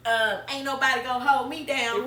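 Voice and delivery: laughing mock bravado. Mock tough talk, laughing.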